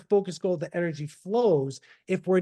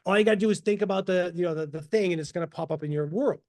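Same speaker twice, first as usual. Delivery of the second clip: mock excited believer; faster than usual. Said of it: "everyone got excited and said".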